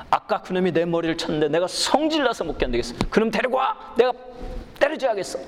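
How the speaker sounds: an angry passenger demanding that the purser bring the culprit; mock enraged passenger. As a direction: play the furious passenger insisting.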